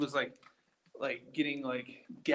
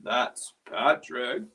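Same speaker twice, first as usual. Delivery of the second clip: slow, drawn-out impression of an old man; older man's voice; 3 semitones lower, 4 dB louder, much slower than usual. Repeating the spirit box's words to the group, imitated older man's voice. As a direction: imitate an older man, taking your time. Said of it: "an older man's voice just went".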